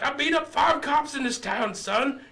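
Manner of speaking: high loud mock redneck boast; retelling the drunk's threats, mock redneck shout; redneck bragging. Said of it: "He's like".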